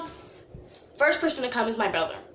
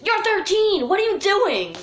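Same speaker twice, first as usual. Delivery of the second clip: mock scolding; 9 semitones higher, 4 dB louder than usual. Mock scolding of her younger self.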